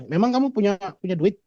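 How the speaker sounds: a touch of scorn in her question; mocking question. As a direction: sneer lightly at his money, as the fiancée did. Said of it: "Kan dia bilang".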